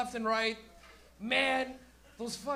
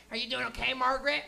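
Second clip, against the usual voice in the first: lightly voiced puppet-like first voice; a hint of a concerned self-questioner; lady talking to herself; 2 semitones higher, 4 dB louder than usual. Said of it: "a lady talking to herself".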